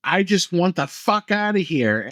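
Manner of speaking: imitating a frantic scream; hammed-up desperate yell; mock scream. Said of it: "she just screams".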